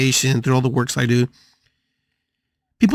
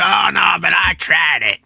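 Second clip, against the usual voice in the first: mock protester; 6 semitones higher than usual. Viewer objecting that it was tried, mock protest.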